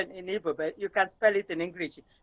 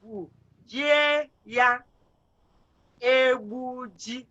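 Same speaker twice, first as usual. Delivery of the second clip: slow, split into syllables; much slower than usual. Shown as a demonstration. Teacher spelling a word out slowly for a pupil. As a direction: break the word apart for the student. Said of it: "See how I'm spelling it?".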